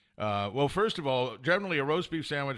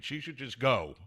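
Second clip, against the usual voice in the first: normal talking voice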